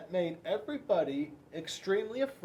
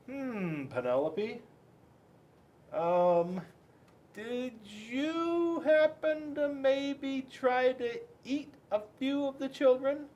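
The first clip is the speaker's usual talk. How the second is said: dad's voice; 9 semitones higher, slower than usual. A narrator's reading. Dad voiced asking gently.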